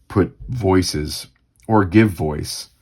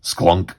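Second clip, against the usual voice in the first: short spoken sklunk; a blunt little sound effect; imitated impact noise. Shown as a demonstration. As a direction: say it as a comic-book clunk. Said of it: "We just hear".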